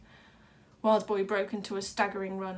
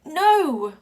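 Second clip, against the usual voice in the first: loud protest; 7 semitones higher, 13 dB louder than usual. Acted.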